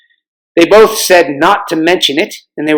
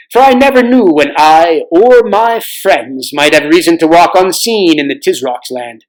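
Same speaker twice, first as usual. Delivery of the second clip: king Tyrion's voice. Acted. Old king shows the children foreign armor, lightly voiced. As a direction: read it like a proud old king showing his stores. King explains the disguise gear.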